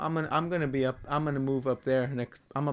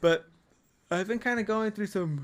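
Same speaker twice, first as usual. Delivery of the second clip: talking through a yawn, pitched higher; 6 semitones higher than usual. Talking about going through changes, yawning while talking. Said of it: "I'm kinda yawning right now".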